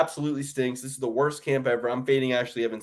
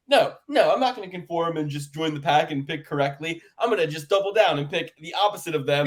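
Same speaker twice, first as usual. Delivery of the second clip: higher, mocking impression of a stubborn friend; mock Dan voice; 4 semitones higher than usual. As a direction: ham up a stubborn contrarian friend. Mocking Dan's contrarian picks.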